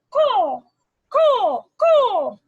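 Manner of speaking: high, loud cawing; crow call. Retold or imitated. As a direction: caw like a crow. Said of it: "the crow says".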